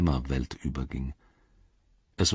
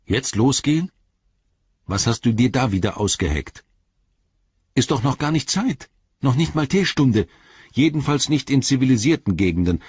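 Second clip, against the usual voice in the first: higher-pitched grumbling protest; suspicious Sam, indignant; 7 semitones higher, 4 dB louder than usual. A narrator's reading. Sam distrusts Gollum's hurry before teatime, indignant. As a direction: object with affronted disbelief.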